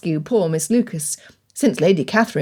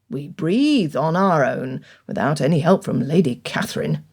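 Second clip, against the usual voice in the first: stern rebuke; 3 semitones lower than usual. Acted. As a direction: lecture him coldly, word by word. Bennet lectures Collins sternly.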